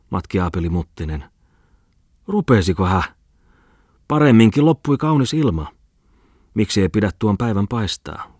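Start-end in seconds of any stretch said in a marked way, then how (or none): 2.3-8.3 high, loud whining complaint; a spoiled old man whining at weather. A narrator's reading. Bookseller whines to Falk about the rain, high and loud. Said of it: "inisi hän".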